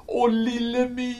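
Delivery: high, loud call of relief; happy cry. A narrator's reading. The Mymble crying out to Little My, high and loud with relief. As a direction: cry out her name in joy. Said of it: "skrek Mymlen".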